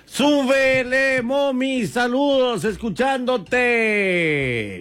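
teasing imitation of a fan's shout-out; mocking a caller. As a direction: drag the words out to tease a listener. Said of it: "dice por acá".

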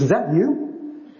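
drawn-out, slow "is that you"; slow mock-amazed query; slow, curious question. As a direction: stretch it out, dawning recognition. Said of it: "He goes".

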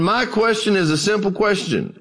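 a hint of an old preacher calling out, high. Old preacher interrupting a lecturer from the back, lightly acted. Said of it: "an old dark-skinned preacher".

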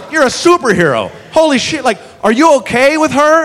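mock stunned wonder; amazed. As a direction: gasp at the superhuman cop. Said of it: "And I go".

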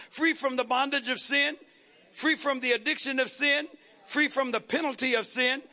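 rhythmic, chant-like sermon build; insistent preacher cadence, rising to a rallying call; rousing preaching. Real, not acted. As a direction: drive each phrase home to the congregation.

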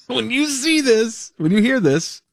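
giggling through the words; laughing. Real, not acted. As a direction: laugh while you say it. Laughing while teasing the story.

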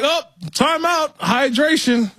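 high-pitched, drawn-out mock announcement; mock time-out call. Mocking the call for a break.

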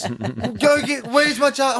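put-on high, demanding little boy; whiny kid. Son demanding charger from dad, high and whiny. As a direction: voice the upset son wanting his charger.

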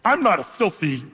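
self-righteous Peter. Acted. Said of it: "That's the idea here".

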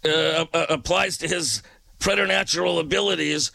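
relaxed late-night radio host read; easygoing DJ voice; radio DJ patter. Acted. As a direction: announce the requests to listeners. Radio DJ show intro.

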